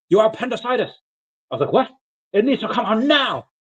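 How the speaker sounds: a hint of a doctor delivering alarming news; urgent doctor.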